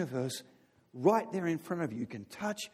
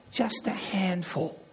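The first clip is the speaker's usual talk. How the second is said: slow whispered aside; breathy whisper, slowed right down; 2 semitones higher, slower than usual. Real, not acted. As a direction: let it slip out as a hushed secret. Aside on the returned exiles.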